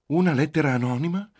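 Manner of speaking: loud, high shocked question; high-pitched incredulous cry; shouted. A narrator's reading. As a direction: cry it out in alarm, rising at the end. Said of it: "gridò Giulia".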